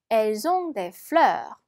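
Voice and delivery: slow, careful French model sentence; slow teacher's French read-aloud. Shown as a demonstration. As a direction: read it slowly like a language tape.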